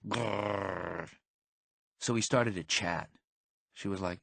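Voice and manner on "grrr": growl. Retold or imitated. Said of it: "Our jaws were like".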